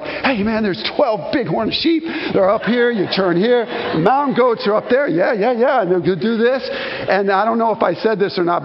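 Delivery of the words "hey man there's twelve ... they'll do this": eager guide. Retold or imitated. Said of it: "and I'm like".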